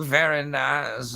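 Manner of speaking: slow, drawn-out mock moan; lightly leer it, stretching both words; Eurotrash moaning. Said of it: "was moaning and going".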